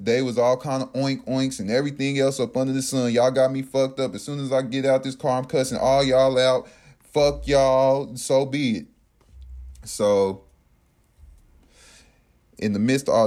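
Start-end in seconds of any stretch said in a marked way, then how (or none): 3.1-8.9 defiant acted-out rant; mildly raised, indignant cussing; retold cussing out. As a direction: replay telling them all off, a bit heated. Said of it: "I'm straight out saying".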